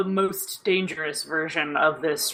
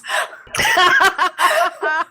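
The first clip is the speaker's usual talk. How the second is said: loud burst of laughter; 10 semitones higher, 6 dB louder than usual. Real, not acted. Laughing at own confusion.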